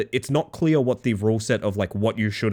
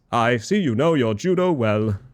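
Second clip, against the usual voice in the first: slow, mock-grand quote; lightly voiced Aussie bloke, unhurried; Democracy Manifest impression. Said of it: "that impression a reference to Democracy Manifest".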